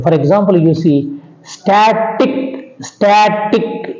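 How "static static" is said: "static" drawn out slowly, stressing STA; stress on second-last syllable. Shown as a demonstration. Teacher showing the penultimate stress rule, "static" stressed on STA. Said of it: "you have to put on the second syllable from the end".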